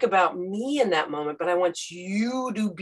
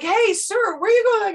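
high, loud call to a running man; 14 semitones higher, 6 dB louder than usual. Retold or imitated. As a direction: shout after him, higher and louder. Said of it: "you're like".

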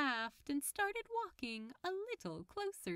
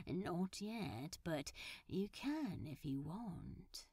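drawled; 4 semitones lower, 4 dB quieter, slower than usual. Acted. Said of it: "Crowley drawled".

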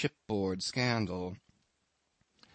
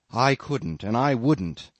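firm, louder refusal; emphatic refusal; 5 dB louder than usual. Acted. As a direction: insist on I, couldn't and wouldn't.

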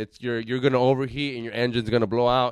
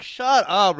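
higher, louder mock snap; snapping at them; 8 semitones higher, 6 dB louder than usual. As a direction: bark it at the girls, half joking. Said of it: "so it's like".

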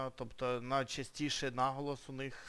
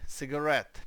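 cigarette with the stress on RETTE; teacher's model cigarette, ciga-RETTE; stress off first syllable; 4 dB louder than usual. Shown as a demonstration. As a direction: say cigarette leaning on its last syllable. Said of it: "читається з наголосом не на перший".

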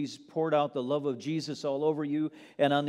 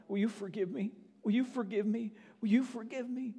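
higher with each repeat, building into begging; wife pleading with her husband, rising higher; pleading plea; 9 semitones higher than usual. Acted. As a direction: beg him a little more each time. Acts the woman begging husband.

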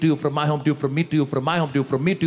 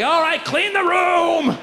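exasperated shout; 10 semitones higher, slower than usual. Retold or imitated. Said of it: "giving in, loud".

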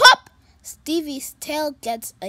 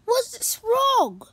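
higher, louder bright cat voice; cheerful kitty voice; 10 semitones higher, 6 dB louder than usual. Acted. Pete greeting his sad friend, high and cheerful.

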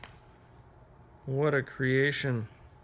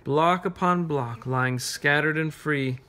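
rhythmic, sinking toward the end; wistful poem reading. Acted. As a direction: look over the ruins in verse. Reads poem to children.

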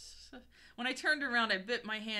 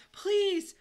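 high, loud drawn plea; begging; 13 semitones higher, 9 dB louder than usual. A narrator's reading. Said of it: "I begged".

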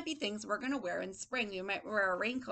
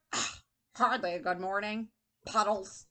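lightly grumbled reply; a hint of sour old man; grumpy old man; 2 semitones lower than usual. Teacher voices old man answering greeting, mildly grumpy. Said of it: "This man is very angry".

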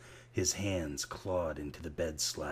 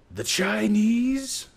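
put-on loud drunken Aussie shout, slow; drunken bellow; 11 dB louder, slower than usual. A narrator's reading. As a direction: bellow it across the bar like a drunk. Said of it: "bellowed a drunken Australian".

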